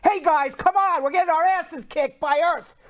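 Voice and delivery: rally the team like a coach at halftime; a hint of a coach's pep talk; coach's locker-room talk. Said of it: "if I was the coach".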